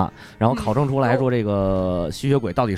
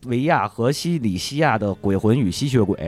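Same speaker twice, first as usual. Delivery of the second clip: all in one breath; 3 semitones higher than usual. Shown as a demonstration. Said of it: "大家容我喘口气儿".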